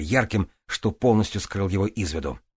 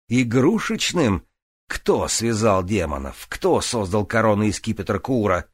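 raised voice; 2 semitones higher, 4 dB louder than usual. Acted. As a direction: raise the voice in outrage. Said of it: "Грист повысил голос".

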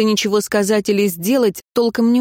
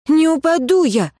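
indignant shout; 9 semitones higher than usual. Acted. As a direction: yell back that she won't fall. Tayra arguing, hitting him.

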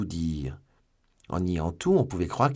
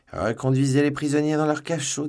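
loud, higher-pitched command; commanding order; 7 semitones higher, 6 dB louder than usual. A narrator's reading. Commissioner sends both prisoners back to cells, commanding. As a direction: bark it out to the guards.

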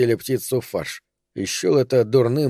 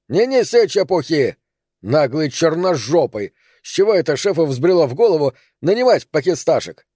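angry yell; 4 semitones higher than usual. Acted. Boss yelling insults at servant.

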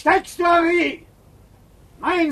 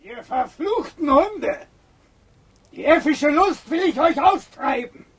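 angry shout. Acted. Enraged Biron curses the crowd.

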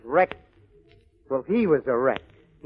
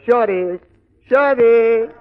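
calling out; 5 semitones higher, 8 dB louder, slower than usual. Acted. Calling the bartender.

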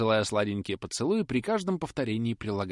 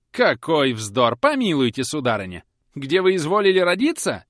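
indignant cry; 6 semitones higher, 10 dB louder than usual. A narrator's reading. Susan retorting to Polly, loud and indignant. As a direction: hurl it back at her. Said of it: "вскричала".

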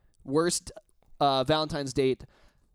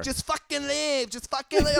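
mock angry; 9 semitones higher than usual. Date throwing him out.

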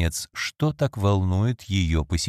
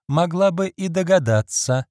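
higher, exasperated finish; impatient; 9 semitones higher, 3 dB louder than usual. Acted. Lady Audley scolds herself before her maid, impatient. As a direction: toss it off in irritation. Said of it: "нетерпеливо воскликнула".

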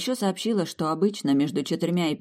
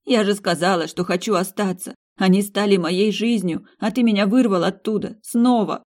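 rising anger; 5 semitones higher, 4 dB louder than usual. Acted. Marina accuses the demiurge.

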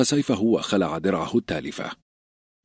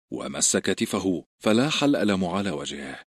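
plain reading voice

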